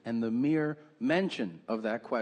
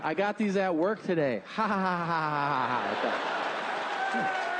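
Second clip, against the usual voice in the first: mock gloating laugh; 4 semitones higher than usual. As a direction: cackle high and pleased at your own prank. Gloating over a joke gift.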